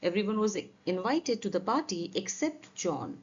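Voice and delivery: slow careful classroom reread; slow repeat. Shown as a demonstration. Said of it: "teacher rereads example".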